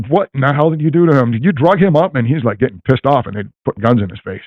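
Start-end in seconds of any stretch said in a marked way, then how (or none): 0.1-2.1 high, rising mock outrage; retold angry outburst. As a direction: imitate Tom's angry disbelief, pitched up. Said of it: "and Tom goes".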